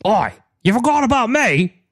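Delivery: high, indignant NPC voice; offended character voice. Acted. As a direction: act wounded at being forgotten.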